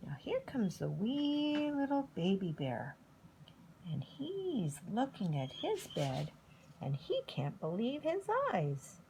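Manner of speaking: hushed, secretive storyteller whisper; suspense whisper. A narrator's reading.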